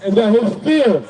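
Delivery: slow, measured Bible reading; scripture reading. Acted. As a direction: read the verse out phrase by phrase. Reads scripture aloud between preaching.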